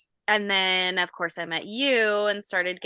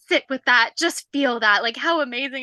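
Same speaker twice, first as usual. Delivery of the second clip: higher, coaxing imitation of the trainer's accent; imitated accent of Lockie; 4 semitones higher, 4 dB louder than usual. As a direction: lightly put on his accent to coach someone. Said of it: "in his little perfect accent".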